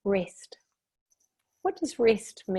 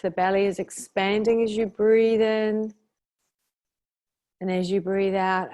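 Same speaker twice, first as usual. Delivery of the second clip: calm, measured meditation guidance with long pauses; guided meditation; 4 dB louder than usual. Shown as a demonstration. Meditation leader helping listeners release their shoulders, calm guided meditation. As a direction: leave room for each breath, easing off at the ends.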